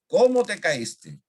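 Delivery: "Cómo" high and loud, then falling; questioning. Shown as a demonstration. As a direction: ask it slowly, punching "Cómo". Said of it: "cuando se pregunta".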